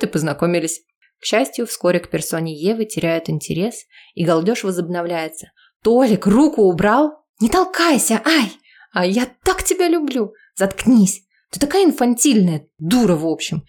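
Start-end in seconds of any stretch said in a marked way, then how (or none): 5.8-13.6 high, squealing party banter; rowdy banter. Acted. Drunk friends jostling at the party, high rowdy banter. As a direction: tease and squeal.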